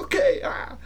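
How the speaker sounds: half-laughing pep call; laughing rally cry; reluctant hype. Retold or imitated. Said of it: "And I was like".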